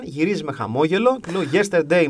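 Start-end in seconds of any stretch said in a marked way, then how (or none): 1.5-2.0 put-on "Yesterday" in heavy Greek accent; English word with a thick Greek accent. Fan addressing a Spanish player, Greek-accented English. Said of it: "με αυτή την προφορά".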